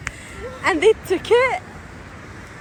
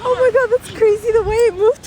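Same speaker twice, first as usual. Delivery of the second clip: louder, laugh-cry; 4 semitones higher, 6 dB louder than usual. Real, not acted. Laughing at the bird.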